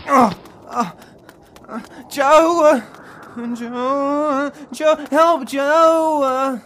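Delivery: scared, crying out for Joe; desperate, frightened calling; panicked cry for help. Acted. Gil panics, calls for help.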